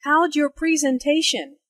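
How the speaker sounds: How'd your run together as howj your; contracted how'd. Shown as a demonstration. Teacher showing students the contracted how'd your. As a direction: blend How'd your into one sound. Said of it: "the contraction for how did sounds like".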